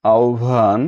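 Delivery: আহ্বান said as "aobhan"; careful আহ্বান with aspirated bh; correct pronunciation. Shown as a demonstration. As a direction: blend হ্ব in আহ্বান into "obh". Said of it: "শুদ্ধ উচ্চারণ কোনটি".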